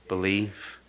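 Believe breathed as a soft whisper. Acted. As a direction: whisper Believe to let it sink in. Repeats key word as a whisper.

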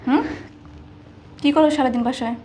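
sudden loud, accusing burst; angry outburst. Acted. Woman scolding the servant over misplaced shoes, angry and loud.

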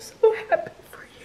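fast, teary whisper; tearful whisper to the new mother. Real, not acted. Sister moved meeting the baby.

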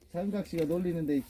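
ordinary talk, nothing marked

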